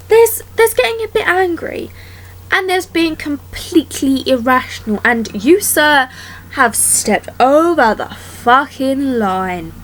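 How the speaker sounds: mock-formal indignant telling-off; indignant outrage. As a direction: lay down the law with mock dignity. Scolding Rumpelstiltskin.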